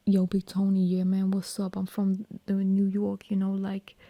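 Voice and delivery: tentative New York accent. Shown as a demonstration. Greeting Big Tony, put-on New York accent. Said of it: "a New York accent".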